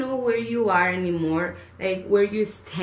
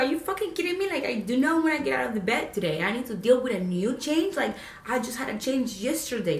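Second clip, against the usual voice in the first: higher-pitched fed-up rant; can't believe it's happening again; exasperated disbelief; 4 semitones higher, faster than usual. Retold or imitated. Venting to viewers about endless life changes, exasperated and higher.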